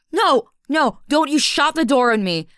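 loud, high shouts to stop the door; furious yelling as he tries to shut her out; angry shouting. Acted. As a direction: yell to force the door open. Stops him shutting door.

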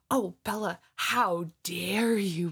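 slow, drawn-out mock scolding; hammed-up outrage, dragged out; mock indignation. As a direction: imitate an offended relative, stretching the words. Mimics relatives scolding her.

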